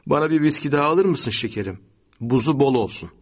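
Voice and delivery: lightly voiced wife asking sweetly; wife asking favour. A narrator's reading. Wife asks husband for another whisky, coaxing. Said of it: "diyordu karısı".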